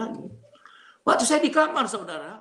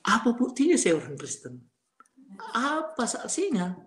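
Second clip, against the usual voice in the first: indignant protest; 5 semitones higher than usual. Retold or imitated. Husband disputes wife's accusation on the phone, indignant. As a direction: challenge the accusation, stretching the last question.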